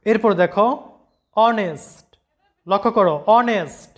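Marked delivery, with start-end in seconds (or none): 1.4-3.9 অনেস্ট begins on a plain vowel, "on-est"; অনেস্ট said with no h at the start; silent h. Shown as a demonstration. Teacher shows the class অনেস্ট with a silent h. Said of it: "এইচ এর কোনো উচ্চারণ নাই".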